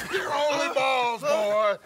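mocking taunt. Captor mocking the prisoner.

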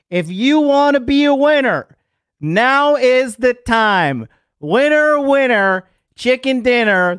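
high, loud salesman hype; hyped ad pitch. Acted. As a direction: sell it big and loud.

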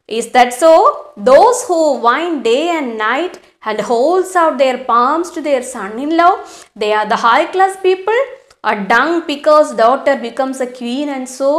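slow, deliberate reading of the story. A narrator's reading. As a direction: read each phrase slowly for the class. Teacher reads the husband's taunt. (പതുക്കെയുള്ള കഥ വായന)

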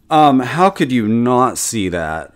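drawn-out, condescending put-on snootiness; snotty voice. Pretend master strategist talking down to viewers, snotty. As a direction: play a snotty rich know-it-all, slowly. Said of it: "that's my snotty voice".

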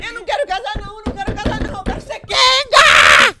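very high mimicry building to a shout; catchphrase imitation. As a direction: start high, explode into a long scream on the end. Imitation contest of played clip.

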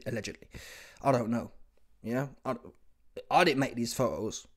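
ordinary talk, nothing marked

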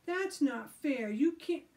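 loud, high protest. Acted. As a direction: cry foul. Alan protesting.

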